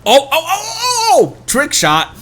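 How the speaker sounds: high, laughing half-cry of alarm; laughing panic. Real, not acted. Streamer watching a risky jump, laughing panic. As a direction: yelp through the laugh as the jump nearly fails. Character nearly falls off ledge.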